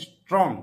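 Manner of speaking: স্ট্রং as a single unbroken syllable; said in one go. Shown as a demonstration. Teacher to class, showing the word said whole. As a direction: give স্ট্রং in one go, not chopped. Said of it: "এটা একবারই উচ্চারণ করতে হবে".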